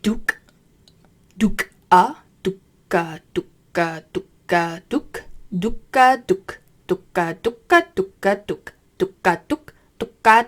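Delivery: rhythmic ferret duk-a sounds; ferret dooking. Shown as a demonstration.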